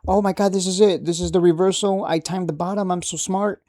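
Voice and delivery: a cocky mock investor cheering the reversal; mock smug excitement. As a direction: play the trader sure he timed the bottom.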